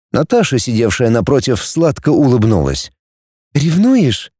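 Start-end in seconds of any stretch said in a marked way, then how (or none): 3.5-4.3 slightly high teasing purr. A narrator's reading. Natasha teases Knurov across the table, purring. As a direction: tease with a lightly purred question. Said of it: "промурлыкала она".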